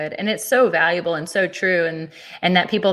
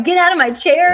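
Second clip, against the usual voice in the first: higher, louder hyped-up burst; fired-up shout; 9 semitones higher, 5 dB louder than usual. Retold or imitated. A listener fired up by her pastor friend, shouting eagerly. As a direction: leap out of your seat with energy. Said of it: "like, so excited".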